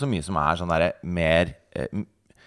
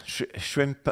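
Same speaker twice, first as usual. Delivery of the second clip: softer, higher mock Aussie shrimp; mock Australian; 5 semitones higher, 8 dB quieter than usual. Asked for Australian, softer mock Aussie. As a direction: try a shy fake Australian shrimp. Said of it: "Si det på australsk".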